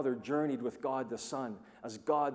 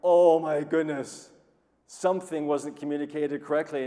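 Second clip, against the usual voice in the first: retold dismay; 2 semitones higher, 10 dB louder than usual. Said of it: "I'm going".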